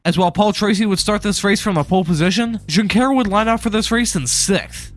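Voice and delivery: sore swollen throat, real; talking through a swollen sore throat. Real, not acted. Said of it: "so if I sound jacked up, that's because my throat is swollen".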